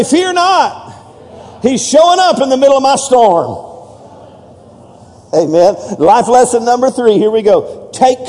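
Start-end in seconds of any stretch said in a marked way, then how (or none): 0.0-3.7 rally the congregation with a big shout; shouted call. Shown as a demonstration. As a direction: shout it out, fear not pitched high.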